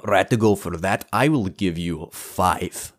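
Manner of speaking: put-on Russian-dwarf voice, deliberate pace. Dwarf offers gold for lessons, Russian accent. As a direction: play a ponderous Russian dwarf.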